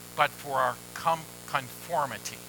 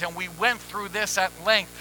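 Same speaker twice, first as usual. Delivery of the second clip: normal talking voice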